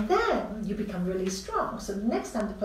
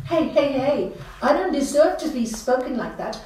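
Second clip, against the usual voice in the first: firm rebuke; 3 semitones higher, 6 dB louder than usual. Retold or imitated. Standing up to shouting husband.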